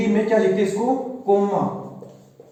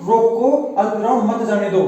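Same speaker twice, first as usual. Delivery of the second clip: "रोको", say "अल्प विराम", then "मत जाने दो" together; comma read out after रोको. Shown as a demonstration. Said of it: "और दूसरा वाक्य क्या है अपना".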